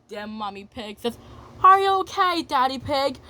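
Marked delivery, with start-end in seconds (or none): 1.6-3.2 high, worried question; acted concern. Mommy Pig asks after Daddy Pig's mishap, high concerned voice. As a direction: check on someone, voice pitched up.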